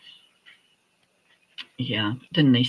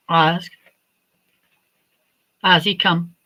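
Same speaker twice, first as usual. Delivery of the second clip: higher, coaxing dog-owner voice; talking to the dog; 4 semitones higher than usual. Real, not acted. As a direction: call the dog over, sweet but firm. Calling and commanding the dog.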